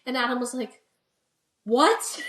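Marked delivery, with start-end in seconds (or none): 1.6-2.3 a laughing, higher "what?"; laughing disbelief. Retold or imitated. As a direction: laugh the question out in shock. Both laughing in shock.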